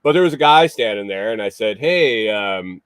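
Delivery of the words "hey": mild call from the road; calling hey toward the barn; retold call out. Calling out to a guy at the barn, a mild yell. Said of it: "I yelled from the road".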